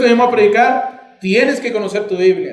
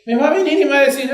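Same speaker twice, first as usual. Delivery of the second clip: normal talking voice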